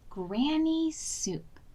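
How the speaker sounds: slow, gloating Granny soup; savoring. Acted. Dog gloating over Granny in the pot, slow and savoring. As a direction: relish the words slowly. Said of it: "he thought".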